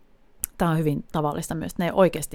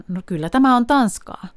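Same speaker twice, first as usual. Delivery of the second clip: insisting back; 5 semitones higher, 5 dB louder than usual. Retold or imitated. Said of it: "ja sit mä vastaan tanskaksi".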